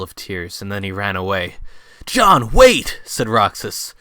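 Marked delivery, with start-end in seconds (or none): 2.0-3.0 high, loud shout after him; calling out. Acted. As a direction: yell to stop him running off. Roxas calls after fleeing Watson.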